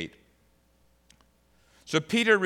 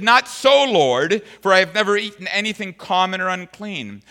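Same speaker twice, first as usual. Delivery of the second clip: higher, louder protesting Peter; Peter objecting; 4 semitones higher, 8 dB louder than usual. Retold or imitated. Preacher voicing Peter refusing God, louder. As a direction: push back hard like Peter refusing. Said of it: "But Peter said".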